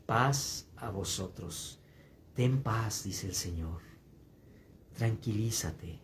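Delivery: slow, low, soft blessing; Jesus giving peace. Acted. Jesus tells the listener to be at peace, slow and soft. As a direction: bestow peace gently.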